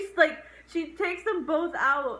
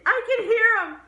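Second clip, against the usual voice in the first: mock crazed shout; 7 semitones higher, 7 dB louder, faster than usual. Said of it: "the last time she says it".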